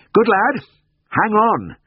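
high, loud, breathless cheer. A narrator's reading. Vet up the tree urges his colleague on, breathless. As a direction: call out urgently, short of breath. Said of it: "I said breathlessly".

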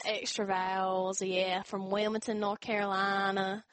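slow Southern US drawl with extra vowels; mock Southern accent, drawn-out vowels. Shown as a demonstration. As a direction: stretch the vowels like a North Carolina Southerner. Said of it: "They speak really slow or sound".

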